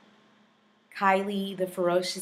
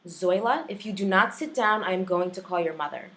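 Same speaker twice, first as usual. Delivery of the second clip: firm, louder classroom warning; threatening teacher; 4 dB louder than usual. Acted. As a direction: deliver a stern warning to an unruly pupil. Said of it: "And the threat".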